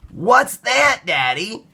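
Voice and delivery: high, loud wondering question; high eager child's question; curious excited child. Acted. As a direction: ask with a kid's amazement. Child sees clouds.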